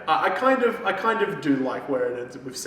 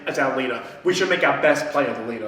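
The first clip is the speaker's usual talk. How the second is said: fawning Judith; 6 dB louder, faster than usual. Retold or imitated. Acting out Judith proposing Sam as leader, hammed-up gushing. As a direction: ham up the eager suck-up.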